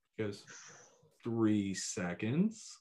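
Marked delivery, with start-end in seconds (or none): 1.3-2.8 imitated super-cool voice, lower and quieter. Describing a shooter calling out a time at the end of a stage, imitating a super-cool voice. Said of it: "like in the coolest voice ever".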